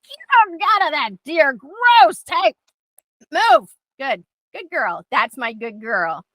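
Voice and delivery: firm then softening to praise; calm redirect. Shown as a demonstration. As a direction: move her off, then praise her gently. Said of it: "I'm gonna go".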